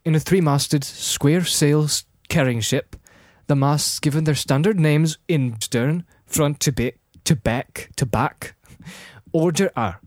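measured Scottish-accented reading; Scottish accent narration. Shown as a demonstration. Reading as if for the BBC, Scottish narrator. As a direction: narrate in Scottish, with deliberate pauses. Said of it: "Narrating, remember this".

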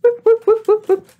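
high excited whoop whoop; playful high whoops as the wheel spins. Pretend. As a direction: hoot like a game show siren. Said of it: "Should we do it?".

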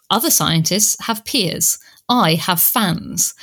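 slow and deliberate, landing each word; slow bitter quote. Retold or imitated. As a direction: let the irony sink in. Quoting Joanna's bitter line.

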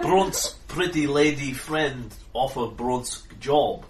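slow simple brute. Acted. GM voicing Brunsk, slow broken speech.

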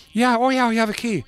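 brightly eager reply; eager promoter. Retold or imitated. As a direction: promoter eagerly answering the band.

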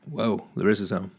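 usual speaking voice

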